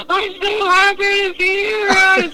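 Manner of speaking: very high, slow mock sobbing; imitating crying. Rescued friend crying with relief in the car, very high mock sob. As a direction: wail it out like blubbering relief. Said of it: "He's like, cries".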